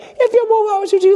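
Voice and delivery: high, loud mock police threat; cop threat. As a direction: bark the threat like the officer. Imitating officer again.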